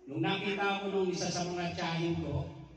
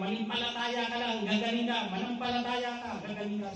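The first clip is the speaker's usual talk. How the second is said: higher, louder coaxing healer; a hint of a persuasive faith healer; healer's voice; 7 semitones higher, 3 dB louder than usual. Healer urges the sick boy to believe, lightly voiced coaxing. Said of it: "Sabi niya sa akin".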